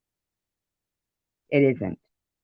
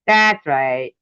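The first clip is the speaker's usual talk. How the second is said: "That's right." repeated louder, pointed; sarcastic louder repeat; louder sarcasm; 6 dB louder than usual. Real, not acted. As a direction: snap it back louder.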